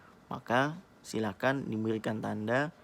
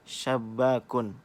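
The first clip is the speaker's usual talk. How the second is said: syabakun drawn out slowly, every sound clear; slow dictation; 4 dB louder, slower than usual. Shown as a demonstration. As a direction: say syabakun slowly so students hear the first letter. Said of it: "Apa yang kalian dengar". (ucapkan syabakun perlahan dan jelas)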